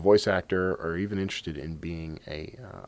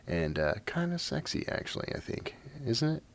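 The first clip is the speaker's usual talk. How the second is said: raspy voice. Real, not acted. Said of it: "my voice is gonna be a little raspy".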